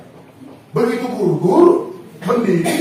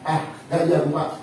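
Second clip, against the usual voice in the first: mock bickering couple; 3 semitones higher than usual. Wife and husband bickering.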